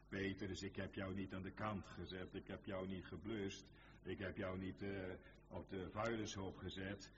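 low, steady preacher voicing God; reassuring divine speech. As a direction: speak comfort in a low, even voice. Voices God speaking to Peter.

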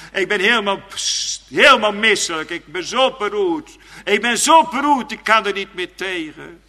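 high, loud plea of a sick sinner acted out; preaching at full force. Preacher voicing a sick man begging God for relief, loud and high. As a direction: cry out the sinner's distress to God.

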